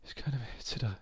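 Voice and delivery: weak moaning voice, sinking into a whisper; pitiful drunk whine. Retold or imitated. Drunk Giovanni begging his friend to call an ambulance, whimpering. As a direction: play the helpless drunk begging for help.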